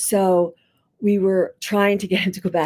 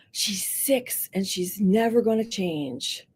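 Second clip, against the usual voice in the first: calm, not sarcastic; 6 dB quieter, slower than usual. Shown as a demonstration. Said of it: "you cannot be sarcastic when you say these things".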